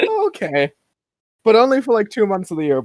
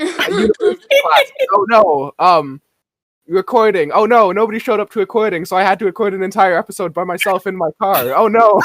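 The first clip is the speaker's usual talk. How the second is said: The speaker but mad; 3 semitones higher, 4 dB louder than usual. Pretend. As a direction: play at being cross, groping for grievances. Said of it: "Hannah, but mad".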